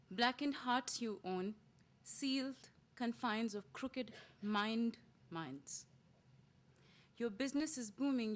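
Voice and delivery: measured poem reading, long pauses between phrases; poetry recitation. Acted.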